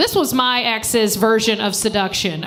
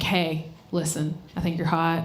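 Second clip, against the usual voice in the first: imitating ex; 6 semitones lower, 8 dB quieter than usual. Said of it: "he was like".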